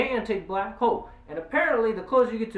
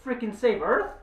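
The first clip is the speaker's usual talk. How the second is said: higher-pitched, incredulous challenge; 5 semitones higher than usual. Retold or imitated. Reviewer challenges the movie's shipbuilders, incredulous. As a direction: question it in exasperated disbelief. Reviewer arguing back at the plot.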